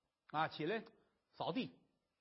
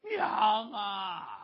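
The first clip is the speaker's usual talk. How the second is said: a loud wailing cry of "mother"; 7 dB louder than usual. Acted. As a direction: cry out to her, half sobbing. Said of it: "大老爷们儿是哇哇的哭".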